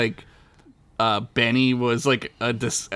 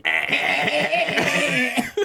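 high, stuttering fake machine-gun noise; slow, goofy rat-a-tat imitation; bad machine-gun imitation; 13 semitones higher than usual. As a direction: imitate gunfire badly with your voice. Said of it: "worst impression of a machine gun".

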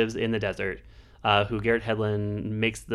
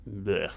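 dismissive bleh; 3 dB quieter than usual. Real, not acted. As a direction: blurt a disgusted bleh. Dismissing feel good movies.

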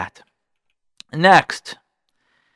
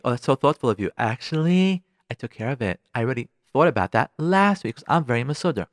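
polite letdown; 4 semitones lower, 3 dB quieter than usual. Acted. Wife politely deflates the surprise.

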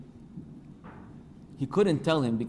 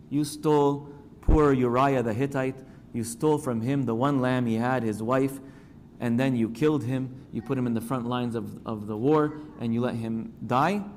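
louder, pressing rebuke; forceful accusation; 4 dB louder than usual. Retold or imitated. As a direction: hammer each charge home like a prophet. Nathan accuses David.

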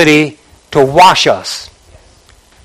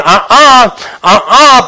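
inner warning; 4 semitones higher, slower than usual. Acted. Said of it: "Holy Spirit was inside of you telling you".

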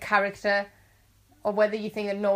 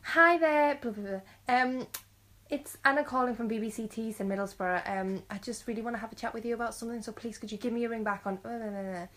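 bright, put-on phone voice, louder at the start; fake voicemail voice; 2 semitones higher, 3 dB louder than usual. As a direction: do your over-polite voicemail voice. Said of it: "I sound so fake".

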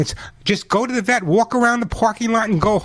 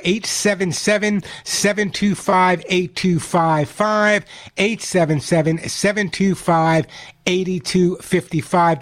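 slow phone number read; slower than usual. Real, not acted. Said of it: "the phone number here".

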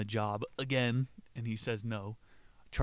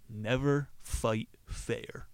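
slow coach advice; much slower than usual. Retold or imitated. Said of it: "He tells him".

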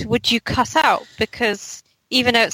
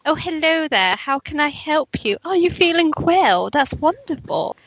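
fake-sweet phone greeting, a bit higher; super nice telephone voice; 5 semitones higher than usual. Shown as a demonstration. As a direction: sound ever so nice on the phone without caring. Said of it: "Telephone voice".

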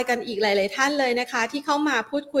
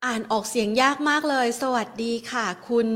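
usual speaking voice

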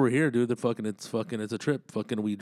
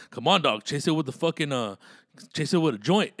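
mimicked homie; 3 semitones higher, 5 dB louder than usual. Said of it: "the fool's all".

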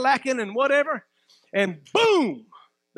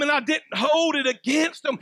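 forceful declaration. Acted. Preacher voicing Jesus to the congregation, shouted. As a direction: preach it out strong, rising to a shout.

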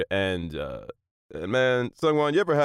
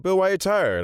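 imitating professor; 11 semitones higher than usual. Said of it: "and he said".

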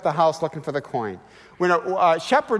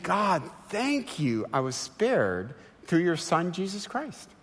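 1 hushed grateful prayer; 5 dB quieter, slower than usual. Acted.

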